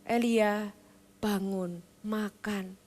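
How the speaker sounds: soft, low, tender coaxing; gentle wake-up. Acted. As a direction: rouse him gently, like waking a tired child. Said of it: "Tuhan nggak ngomelin gitu ya". (lembut dan pelan, membangunkan Elia)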